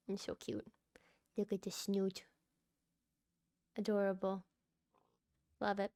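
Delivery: soft whispered coo. Real, not acted. Player whispering fondly to her pig, soft unvoiced whisper.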